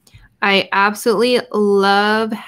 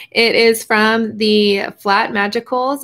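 excited. Real, not acted. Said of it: "I'm yelling in the microphone".

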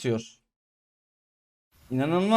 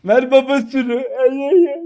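high, loud gleeful shouting; loud mocking cry; excited yell; 8 semitones higher, 6 dB louder than usual. Real, not acted. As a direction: yell it out in triumph. Gamer yelling at enemy team.

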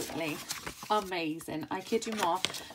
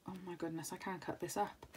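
hushed awe; 9 dB quieter than usual. Retold or imitated. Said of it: "I was like".

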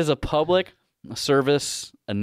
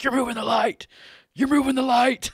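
higher, rising exasperated voice; exasperated complaint; 13 semitones higher, 3 dB louder than usual. Retold or imitated. Griping at his son who is holding the flashlight, exasperated. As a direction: squeak out frustration at a fidgety helper.

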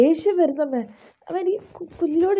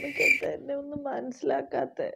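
inner voice; 8 dB quieter than usual. Acted. Daughter's inner lament over music.

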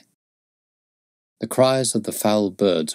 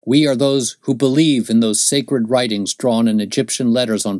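raised, fervent declaration; zealous Mormon; 4 semitones higher, 4 dB louder than usual. Acted. Young Mormon declares his people's mission, fervent and raised. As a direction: proclaim the faith like a believer.

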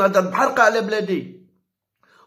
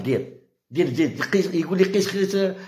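mocking. Market seller taunting a choosy shopper, mockingly. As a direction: sneer it like a vendor teasing a picky buyer. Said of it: "يقولها باستهزاء".

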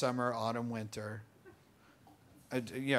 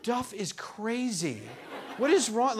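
laughing mock disbelief; 7 semitones higher, slower than usual. Quoting baffled judges, laughing.

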